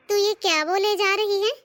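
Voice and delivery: mildly outraged mother-in-law; indignant rebuke. Acted.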